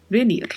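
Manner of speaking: "Venir" with a light B sound for V and a trilled final R; Spanish V and R. Shown as a demonstration. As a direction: start "Venir" almost on a B, end on a rolled R. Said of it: "e tem o vibrato do R ao final".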